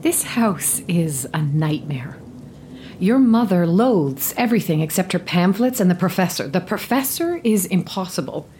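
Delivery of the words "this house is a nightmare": hushed, slow whisper; a weary whisper; whispered despair. Acted. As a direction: breathe it out in despair. Opening whispered complaint.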